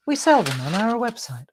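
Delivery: put-on American sales voice; American accent. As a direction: slip into an American accent to sell. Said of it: "go into an American accent".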